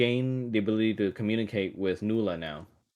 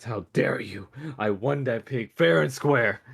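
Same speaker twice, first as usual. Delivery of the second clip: put-on offended old hag, louder at the end; indignant hag; 4 semitones higher, 4 dB louder than usual. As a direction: rise from hurt pride into an outraged shout. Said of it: "grits her dirty teeth at you".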